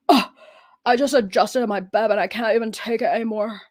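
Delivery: put-on little puppy voice; Nubby. Shown as a demonstration. Three-legged dog complaining how hard life is, puppy voice. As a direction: lament as a teeny tiny struggling puppy. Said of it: "Nubby is the three-legged dog".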